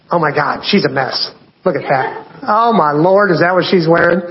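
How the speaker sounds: lightly mock the scrolling judge muttering over a phone; judgy gossip voice. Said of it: "I don't know where the voice came from".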